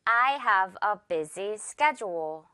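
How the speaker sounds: "schedule" said SKED-jool, with a j sound. Shown as a demonstration. Teacher modelling "schedule" for learners, careful j sound. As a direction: say "schedule" with the d softened to j, slowly. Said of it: "One more time".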